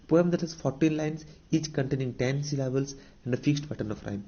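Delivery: very slow, word by word, as if for notes; dictating a definition to students; slow dictation. Shown as a demonstration. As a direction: read it out slowly so the class can write. Teacher reads English definition aloud.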